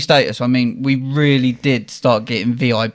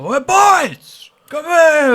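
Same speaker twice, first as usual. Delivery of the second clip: high, drawn-out mock squeal of welcome; imitating excited greeting; 13 semitones higher, 4 dB louder, much slower than usual. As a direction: greet the lads in a high, thrilled put-on voice. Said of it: "And he's well excited".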